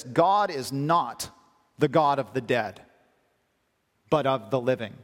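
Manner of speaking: "God is not" drawn out slowly and weighted, each word set apart; slow emphatic quote. Shown as a demonstration. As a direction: lean hard and slow on "God is not", then let it fall. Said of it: "Then he says this".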